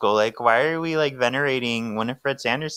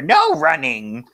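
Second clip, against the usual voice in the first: high, slow shouted warning; mock teacher yell; 4 dB louder, slower than usual. Teacher yelling at students in the hallway, high and slow. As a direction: bark the rule like a hall monitor.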